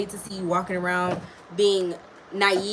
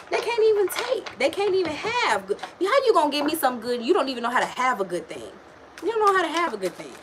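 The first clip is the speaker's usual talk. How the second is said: heated rant; 5 semitones higher than usual. Real, not acted.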